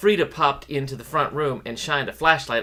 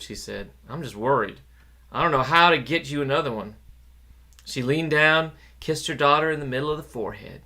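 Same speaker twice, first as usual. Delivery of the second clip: tender mother. Acted. Mother comforting daughter.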